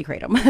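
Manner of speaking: kratom with a long AY, "KRAY-tum". Real, not acted. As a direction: say kratom with the vowel of "day". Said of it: "We usually say kratom".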